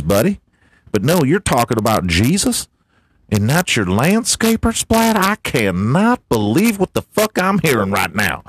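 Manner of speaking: a hint of a churchy redneck; MAGA man character. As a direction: play the preachy MAGA janitor. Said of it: "Listen, Mega Man".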